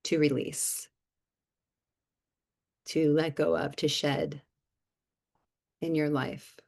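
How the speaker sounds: unhurried meditation lead with lingering silences between phrases; guided meditation. Real, not acted. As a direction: gently guide listeners inward, leaving long pauses. Leads a short guided reflection.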